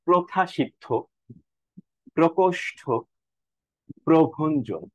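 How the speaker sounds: প্রথাসিদ্ধ, প্রকোষ্ঠ, প্রভঞ্জন, each apart and carefully; model pronunciation. Shown as a demonstration. Teacher reads example words to students, careful model pronunciation. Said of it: "র ফলার উচ্চারণ আসলে ঠিকঠাক ভাবেই হয়".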